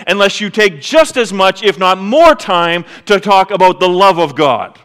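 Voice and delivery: lightly voiced Jesus challenging the listener; voicing Jesus. Pastor voicing Jesus to the congregation, earnest and firm. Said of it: "Jesus says".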